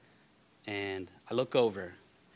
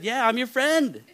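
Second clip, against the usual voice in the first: imitating young boy; 12 semitones higher, 8 dB louder than usual. Retelling the third-grade boy.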